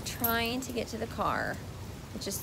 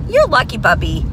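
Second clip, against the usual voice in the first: pet talk; 16 dB louder than usual. Real, not acted. Talking to the puppy.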